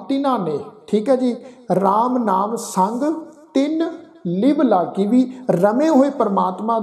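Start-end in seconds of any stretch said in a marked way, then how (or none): 1.8-5.1 slow, measured recitation; slow gurbani recitation. Acted. Teacher reciting gurbani verse slowly to students. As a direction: recite each word apart, devoutly.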